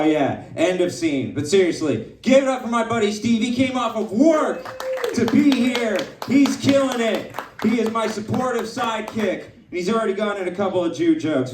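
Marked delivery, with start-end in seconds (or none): 2.2-9.4 applause-rousing shout-out. Real, not acted. Host whips up applause for sidekick.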